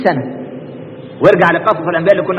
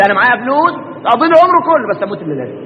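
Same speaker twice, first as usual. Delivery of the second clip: embarrassed; 2 semitones higher, much faster than usual. Retold or imitated. Embarrassed man hiding that he has nothing, rushed and trailing off. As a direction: rush it out, then swallow the last words. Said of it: "بس الراجل مكسوف يقول".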